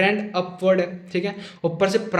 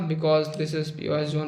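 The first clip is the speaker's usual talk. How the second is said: slow spelled-out term; 4 semitones lower, 4 dB quieter, much slower than usual. Shown as a demonstration. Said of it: "मैं इस वाले zone को BOS zone बोलता".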